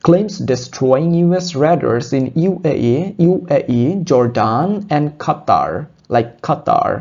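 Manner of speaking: line read again very slowly with Qatar as khatar; slow model reading. Shown as a demonstration. Teacher rereading the line so students copy it, slowly. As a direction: go word by word, Qatar with breathy kh. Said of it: "আমি যদি এই লাইনটা আবারও বলি".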